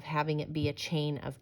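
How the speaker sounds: soft whispered ending. Real, not acted. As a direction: trail into a hushed whisper. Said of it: "unvoiced whisper".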